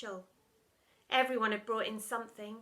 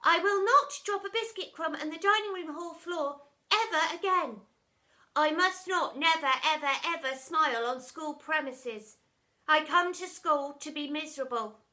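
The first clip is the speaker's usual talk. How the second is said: louder, dutiful recitation; reciting lines; 5 semitones higher, 7 dB louder than usual. Acted. Pupils reciting their lines, dutiful.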